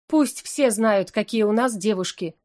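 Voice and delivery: slow, proud and showy; proud declaration. Acted. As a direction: announce it with pride to the room. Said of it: "гордо заявила сестра". (гордо и медленно, напоказ)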